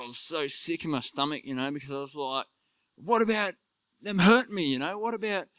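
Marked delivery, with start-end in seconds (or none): 3.0-5.5 high, whiny protest against forgiving; hurt, self-pitying complaint pitched high; indignant protest. Retold or imitated. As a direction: object like a wronged child, much higher. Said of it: "blaming everyone else".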